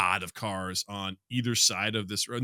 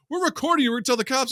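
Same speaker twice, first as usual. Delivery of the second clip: high, louder mock threat; whiny protester; 14 semitones higher, 5 dB louder, faster than usual. Protester warns the yelling old man, higher mocking whine. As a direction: play the smug protester threatening to call the police. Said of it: "He's like".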